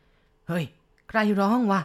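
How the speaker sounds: jolted by a strange moan in the dark; ตกใจ ตะโกนถามเสียงดัง; startled. Acted. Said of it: "กำนันถามด้วยความตกใจ".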